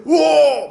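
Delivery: loud, high army roar; imitated war cry. Preacher mimics the besieging army, loud war cry.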